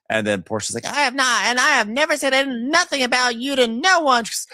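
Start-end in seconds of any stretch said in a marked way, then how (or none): 0.8-4.2 high, loud, quick put-on denial; mock Portia denial. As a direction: rattle off the denial in a prissy voice. Voicing Portia denying.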